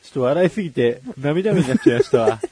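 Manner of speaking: breathless from laughing, eyes watering; after laughing hard. Real, not acted. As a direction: still laughing through the words.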